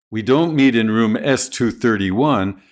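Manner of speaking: thirty-one stressed against the corrected room; contrastive stress. Shown as a demonstration. Teacher correcting a room number, stress on thirty-one. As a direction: put the weight on thirty-one. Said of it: "Prominence can emphasize contrast".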